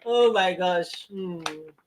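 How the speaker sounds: slow, breathless after laughter; laughing. Real, not acted. To the audience, recovering from a laughing fit, breathless. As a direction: catch your breath between giggles. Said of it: "I'm laughing".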